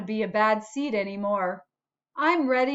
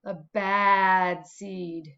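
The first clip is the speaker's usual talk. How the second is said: low, slow, spooky whisper-like repeat; ominous low echo; 4 semitones lower, much slower than usual. Acted. The seed telling the class he is bad, low and slow. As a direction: drop the voice low and drag it out.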